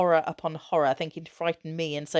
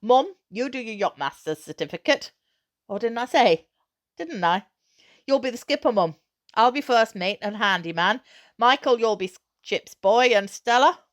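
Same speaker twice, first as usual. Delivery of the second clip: lively, louder excited dad; a dad bursting with his big plan; father's eager voice; 4 semitones higher, 6 dB louder than usual. Acted.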